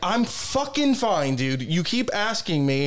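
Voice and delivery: slow, emphatic mock exasperation; getting mad. Answering someone who keeps asking, mock losing patience. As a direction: lean hard on the swearing, acting out rising irritation. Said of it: "Now I'm mad".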